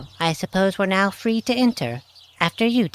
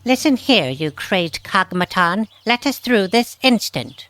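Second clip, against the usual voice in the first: angry command; 6 dB louder than usual. Acted. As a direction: order the robot out of the way. Tia orders the robot guard.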